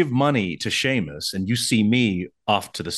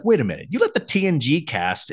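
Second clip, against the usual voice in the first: mildly angry protest, pitched up; retold indignation; 5 semitones higher than usual. Actor recalling his complaint to the producer, mock-indignant. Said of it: "I was angry because I was like".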